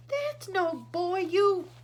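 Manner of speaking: high, loud, slow insulting shout; a loud furious shout. A narrator's reading. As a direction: yell the insult. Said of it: "shouted ground control".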